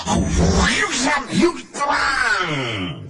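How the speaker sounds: high, stretched-out combat noises; shrieked swish and clang, last one drawn out; imitated fight whooshes. Narrator imitates fighting sounds. (niron sora gelut, luhur jeung panjang)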